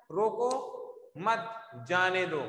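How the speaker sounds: "रोको", "मत", "जाने दो" with pauses between; word-by-word "रोको… मत… जाने दो"; broken into parts. Shown as a demonstration. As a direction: separate all three parts, falling on "जाने दो". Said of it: "इसका अर्थ क्या निकला है?".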